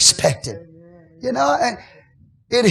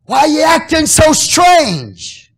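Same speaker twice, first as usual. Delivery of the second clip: mock question; 8 semitones higher, 8 dB louder, slower than usual. Mock question to strange person.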